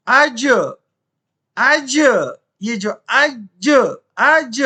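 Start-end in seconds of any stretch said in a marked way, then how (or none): 0.1-2.0 अज with the ज bouncing into a short vowel; echoed qalqalah. Shown as a demonstration. Teacher showing students how to read jeem, echoed qalqalah on अज. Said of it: "इसको बोलते हैं कलकला". 3.1-4.6 अज with a distinct bounce after the ज; echoed qalqalah. Shown as a demonstration. Teacher pointing out the sound, echoed qalqalah on अज. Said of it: "ये जो आवाज आ रही है ना".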